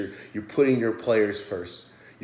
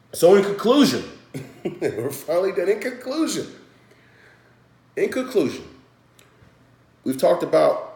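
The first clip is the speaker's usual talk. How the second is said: high, put-on silly voice, giggling; mock announcer voice; 9 semitones higher, 5 dB louder than usual. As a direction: ham up the conclusion in a goofy voice. Laughing wrap-up in silly voice.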